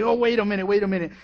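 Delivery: a sudden oh as he realizes; the devil catching himself. Acted. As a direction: devil stopping short, loud and alarmed. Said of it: "He would say".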